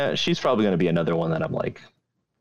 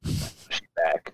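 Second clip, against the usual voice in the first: whispered; 5 dB quieter than usual. Pretend. Whispered echo.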